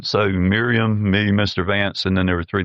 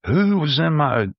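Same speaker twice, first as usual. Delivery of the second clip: imitating angry guest; 5 semitones higher than usual. Retold angry guest cussing.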